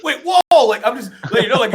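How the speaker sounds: shrieking high and loud, over the top; crazy high energy. Retold or imitated. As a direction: come in way too hot. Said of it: "insane crackhead energy".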